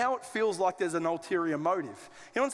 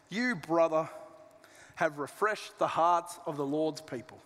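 measured reading of the letter; scripture reading. Acted. Preacher reading Paul's letter to the congregation, earnest. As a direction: read Paul's words with care.

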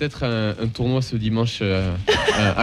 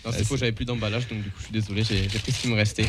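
right in your ear; 7 dB quieter than usual. Real, not acted. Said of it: "Le petit moment A S M R".

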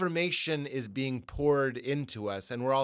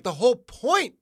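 high, loud put-on declaration; hammed-up, emphatic and raised; mock eighties striver; 11 semitones higher, 8 dB louder than usual. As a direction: proclaim it like a cocky eighties go-getter. Voices an eighties man's outlook.

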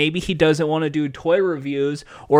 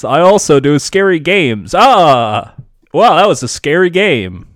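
lightly voiced YouTuber, louder and emphatic; a hint of a booming horror-game host; Markiplier; 5 dB louder than usual. Markiplier signs off a scary game, hammed-up impression. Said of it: "do this little deeper voice".

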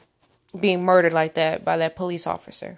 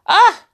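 short, high, loud cry of joy; sudden happy squeal; delighted exclamation; 13 semitones higher, 10 dB louder than usual. Real, not acted. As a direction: burst out with a high "Ah!". Delight after welcoming new believer.

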